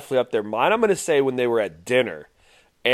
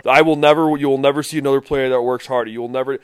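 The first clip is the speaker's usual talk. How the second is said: mock Tebow speech; faster than usual. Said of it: "he's like".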